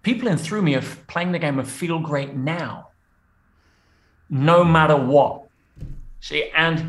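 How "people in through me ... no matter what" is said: slow teaching pace with long pauses; deliberately slow. Shown as a demonstration. Coach giving the final game to listeners, slow and deliberate. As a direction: spell it out slowly, phrase by phrase. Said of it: "So I'll say it slowly".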